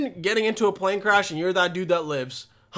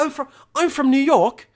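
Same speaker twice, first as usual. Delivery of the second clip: sarcastic mock answer; 7 semitones higher, 5 dB louder than usual. Mock answer to stupid question.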